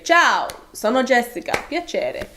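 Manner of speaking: playful switch into Italian; Italian mode. Acted. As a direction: greet in lively Italian pronunciation. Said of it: "switch into Italian mode and say".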